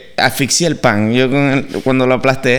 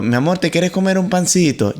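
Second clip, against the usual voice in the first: sweetly offering; 7 semitones higher than usual. Retold or imitated. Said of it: "le grité a mi esposa, con amor".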